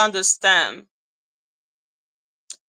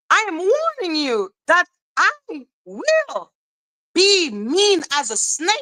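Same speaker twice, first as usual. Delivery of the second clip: mock menace; 6 semitones higher than usual. Warning the trolls, building up.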